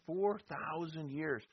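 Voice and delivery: slow, weighty stress on "Four thousand years"; emphatic repeat. Acted. Preacher stresses to his class how long they waited, slow emphatic. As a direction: lean on "Four" and drag the phrase out slowly.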